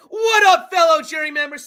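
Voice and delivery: high shouted robot greeting; loud, high robotic shout-out; Zingbot. Retold or imitated. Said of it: "And Zingbot says".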